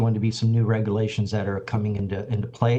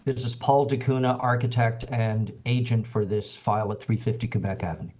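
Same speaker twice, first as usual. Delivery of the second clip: speaking up. Real, not acted. Agent repeats his introduction after the chair's request, speaking up. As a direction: project a bit more so the chair hears. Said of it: "Yes, that's better".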